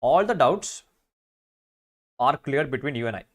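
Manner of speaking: slow, deliberate wrong answer; slow reading of the wrong version. Shown as a demonstration. Teacher reading out the wrong option for the class, slowly. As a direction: read it out slowly to show the mistake. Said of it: "You and I അല്ല".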